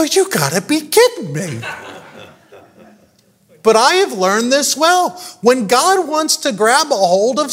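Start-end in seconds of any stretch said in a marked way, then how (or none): 0.0-1.6 laughing disbelief. Retold or imitated. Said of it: "I go".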